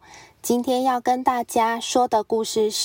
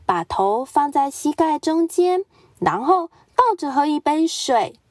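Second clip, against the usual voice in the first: higher, confident helpful advice; eager tiger; 4 semitones higher than usual. Acted. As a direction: sell the silly cure brightly. Pig gives advice.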